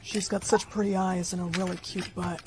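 private thought. Acted. Overheard thought of teacher.

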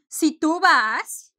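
"Si tú vas" slow and emphatic; slow, emphatic example; slow model phrase. Shown as a demonstration. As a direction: draw out "Si tú vas" for learners. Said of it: "Puedes decir".

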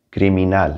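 criminal in Spanish, C said as hard K; criminal, Spanish pronunciation opening on K. Shown as a demonstration. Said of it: "hard K".

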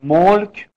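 ملک with its own short vowel made clear; ملک sounded out for the class; vowel demo. Shown as a demonstration. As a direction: set this ملک apart by its vowel.

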